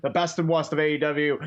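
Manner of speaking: put-on Boston accent, r dropped: "worst" said "wahst". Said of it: "That was your Boston accent".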